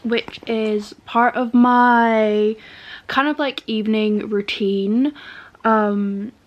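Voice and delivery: talking with teeth whitening strips in. Real, not acted. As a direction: mouth half full with whitening strips. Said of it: "I sound different".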